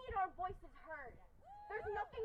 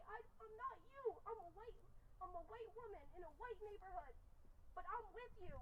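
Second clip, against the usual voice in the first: boss quoted; 11 dB quieter than usual. Retold or imitated. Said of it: "She told me".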